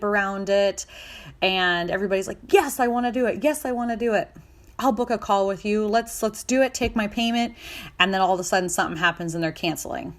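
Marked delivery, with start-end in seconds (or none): 2.5-7.5 high, eager agreement. Retold or imitated. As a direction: sign up enthusiastically. Clients acting eager.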